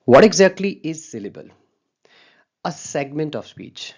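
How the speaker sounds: drawn out, very slow and loud on the question; slow emphatic reading. Shown as a demonstration. Teacher reading a slide definition to students, slow and emphatic. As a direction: read the definition slowly for the class.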